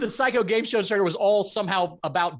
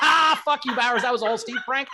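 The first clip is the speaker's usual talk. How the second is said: mock taunt; 3 semitones higher than usual. Imagined players taunting the duped fan, mock gloating. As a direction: pretend gloating yell, pitched up at first.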